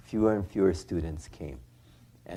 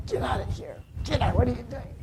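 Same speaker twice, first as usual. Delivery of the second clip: retold shout, pitched way up; shouting at deer; faster than usual. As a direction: yell them off the hillside.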